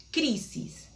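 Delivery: crisis, weight on the first syllable; CRI-sis, second syllable falling away; stress on first syllable. Shown as a demonstration. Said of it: "acento en la primera sílaba".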